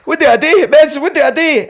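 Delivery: pleading in a high, frantic voice; high panicked plea. Retold or imitated. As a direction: cry out to the medicine, desperate and high.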